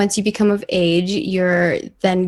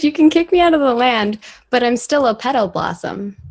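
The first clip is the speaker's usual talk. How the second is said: repeated louder, with a laugh; 4 semitones higher, 3 dB louder than usual. Shown as a demonstration. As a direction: say it again, bolder and louder. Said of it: "What'd you say?".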